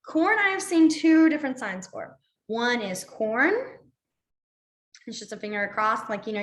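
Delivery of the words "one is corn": slow, clear vocab word. Shown as a demonstration. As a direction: say corn slowly like a teacher. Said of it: "teaching sign vocabulary".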